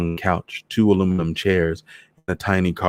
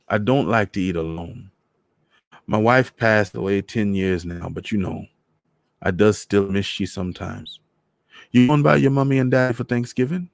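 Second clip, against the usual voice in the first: put-on gentle Trinidadian old man; lonely widower asking her; lightly voiced Trini old man; 3 semitones higher than usual. Voices Mister Morris.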